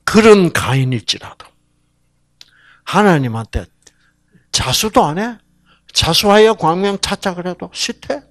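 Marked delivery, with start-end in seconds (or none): none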